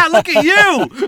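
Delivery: high, loud laughing exclamation; laughing loudly. Real, not acted. Co-host laughs loud at the swear, teasing him. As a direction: burst out laughing while teasing.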